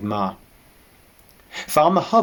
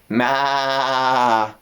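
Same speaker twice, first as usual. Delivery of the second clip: lightly voiced old sheep; old ewe voice; 3 semitones higher than usual. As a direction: answer like a weary ewe.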